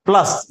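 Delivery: "प्लस" with the emphasis on ल; stress on ल. Shown as a demonstration. Teacher repeating the example for students, stress on ल in "प्लस". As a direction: put the weight on ल in "प्लस". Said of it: "लय के ऊपर बलाघात".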